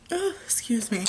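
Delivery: hiccuping mid-sentence; interrupted by a hiccup. Real, not acted. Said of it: "I have the hiccups, as you guys can see".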